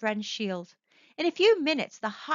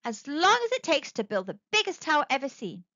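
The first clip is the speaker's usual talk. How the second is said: excitedly; 4 semitones higher, faster than usual. Acted. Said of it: "said Martin excitedly".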